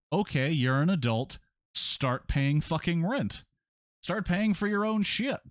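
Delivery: slow, rising indignation; indignant retort. Real, not acted. Player answering the eighteen card, indignant and emphatic. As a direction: lay down the law, drawing out each demand.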